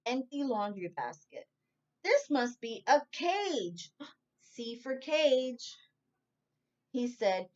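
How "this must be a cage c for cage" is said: surprised gasp. Acted. Bear gasps in basket.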